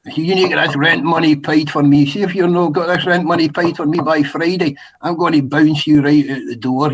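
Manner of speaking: heavy Scottish accent, playing it tough; thick Scottish brogue, menacing landlord; broad Scottish accent. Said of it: "I put the real heavy Scottish accent on".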